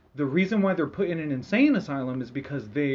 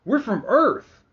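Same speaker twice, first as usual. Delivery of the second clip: high, loud eager greeting; eager astronauts; 8 semitones higher, 7 dB louder, slower than usual. Retold or imitated. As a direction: announce yourself proudly. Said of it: "and they're like".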